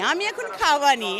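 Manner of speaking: Faridpur dialect. Shown as a demonstration. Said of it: "সচরাচর বলা হয়ে যায়".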